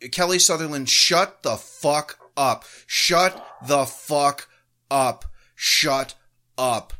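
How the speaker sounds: slow, pounding, angry repeats; enraged. Real, not acted. Host telling the referee to shut up, enraged. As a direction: hammer each word at the ref. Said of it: "enraged watching that again".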